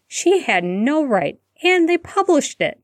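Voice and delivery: outraged disbelief climbing up high; exclaimed in disbelief. A narrator's reading. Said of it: "Hermione exclaimed in disbelief".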